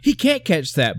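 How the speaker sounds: high, stunned disbelief; can't believe what he just saw; retelling his stunned reaction in the theater; shocked disbelief. Retold or imitated. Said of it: "but I was like".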